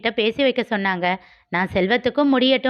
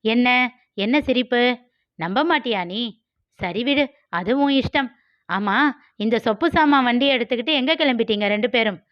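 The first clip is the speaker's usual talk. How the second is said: put-on teasing girl Malar; 2 semitones higher than usual. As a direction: needle him like a cocky young woman. Malar taunting.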